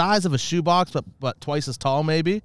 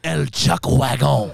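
put-on drawn-out Spanish accent gone astray; botched Spanish accent, sounding like Borat; slow, muddled Spanish-French accent; mock Spanish accent; slower than usual. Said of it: "it sounded like Borat".

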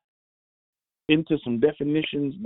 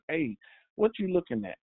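quick, rising demo; 4 semitones higher, 4 dB quieter, faster than usual. Shown as a demonstration. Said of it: "depending on the inflection".

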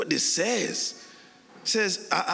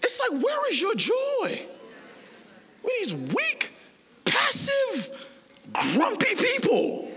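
shouted rebuke; slower than usual. Real, not acted. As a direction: call the church out with a shout.

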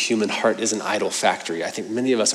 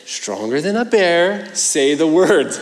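put-on insistent child; 6 semitones higher, slower than usual. Son pushing dad mid-prayer.

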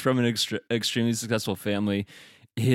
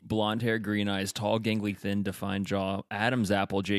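rattled off without a breath; all in one breath; 4 semitones lower, 5 dB quieter than usual. Shown as a demonstration. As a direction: read the whole list in one go. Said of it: "I'm gonna read it all in one breath".

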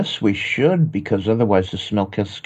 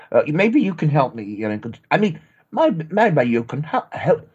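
higher, hammed-up British accent; fake British accent; 3 semitones higher than usual. American faking a British accent for the podcast. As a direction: stumble through a bad British accent. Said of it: "behave like a Brit".

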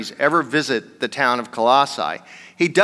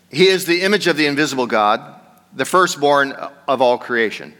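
firm, projected Bible reading; scripture reading. Acted. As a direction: read the verse out clearly to the congregation. Reads scripture aloud to congregation.

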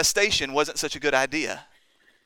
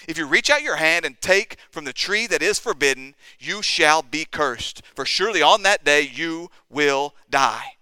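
stern warning. Retold or imitated. God warns the man in Eden, solemn warning. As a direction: spell out the sentence deliberately, word by word. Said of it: "God warned the man".

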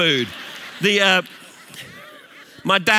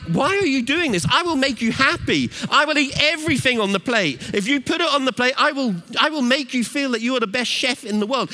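put-on high, emphatic childhood protest; eager to please; 4 semitones higher than usual. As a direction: plead your case, pitched high. Acted eager young self at table.

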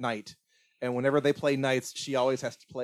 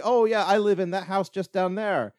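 lightly imitated little girl, higher pitched; hint of a chirpy child; 7 semitones higher, 4 dB louder than usual. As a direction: quote a helpful child in a higher voice. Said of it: "'cause she says".

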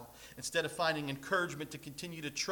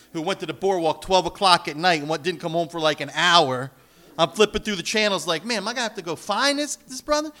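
loud amused storytelling; 3 semitones higher, 9 dB louder than usual. Real, not acted. Excited anecdote, loud.

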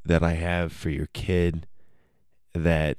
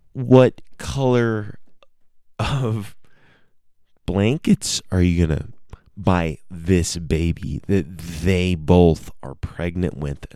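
mock probing question; slower than usual. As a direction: stretch it out slowly like a sly trap question. They probe with a trick question.

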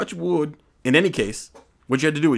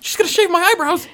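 mock alarmed whisper; 6 dB louder than usual. Real, not acted. Alarmed aside.

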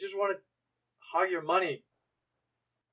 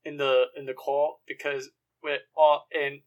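British commentator; 2 semitones lower than usual. Pretend. Improvised British commentator act.

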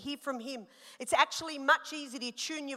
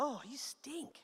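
grossed-out son; 12 dB quieter, slower than usual. Retold or imitated. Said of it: "He's like".

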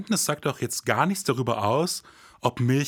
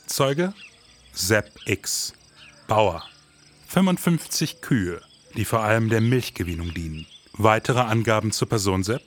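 terse, clipped detective taking a statement; hard-boiled detective dictating notes; mock police report; 3 semitones lower than usual. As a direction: read off the witness file like a cop.

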